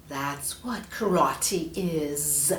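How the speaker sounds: slowed, low serpent musing; drawn-out snake realisation. Acted. Snake learning about karate, slow and low.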